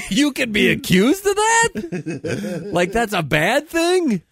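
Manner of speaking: high-pitched disbelief through laughter; incredulous laughing. Real, not acted. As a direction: laugh out the question, astonished.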